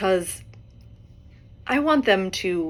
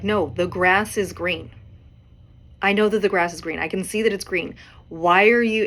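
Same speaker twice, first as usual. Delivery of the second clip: mildly irritated, emphatic insistence; pissed-off cheetah; 4 dB louder than usual. Acted. Cheetah losing patience with the stubborn donkey, mildly pissed off. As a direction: push back with rising exasperation. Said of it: "the cheetah's getting pissed".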